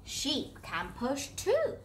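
lightly croaky frog, slow. Acted. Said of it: "croaks frog".

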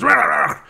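high, loud snarling dog bark. Retold or imitated. Imitating the inspector's attacker, high loud dog bark. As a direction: imitate a dog going for someone. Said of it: "and the dog goes".

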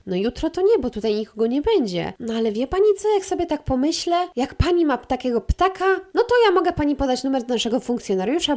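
shelter receptionist. Retold or imitated. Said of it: "kobieta mi odpowiada".

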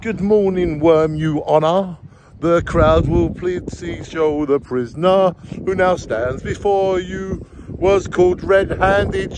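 lightly hamming up the judge from a song; mock judge. Recalling a band's trial scene, a lightly hammed judge. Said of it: "the judge".

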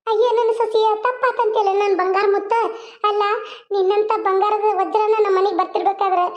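fond, sing-song elder woman's voice; doting mother-in-law. Acted. Mother-in-law fondly welcoming her new daughter-in-law home, doting. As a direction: coo over her like a proud mother-in-law.

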